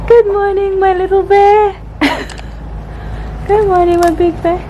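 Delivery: high, playful morning greeting; sing-song good morning. Real, not acted. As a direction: coo a good morning to a little one. Mom greeting child sing-song.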